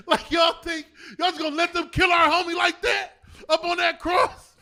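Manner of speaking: rally the crew, shouting; shouting disciple. Acted.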